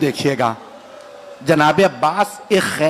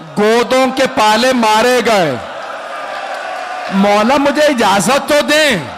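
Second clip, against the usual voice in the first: pleading cry; 4 semitones higher than usual. Acted. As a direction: cry out for permission. Abbas begging for permission.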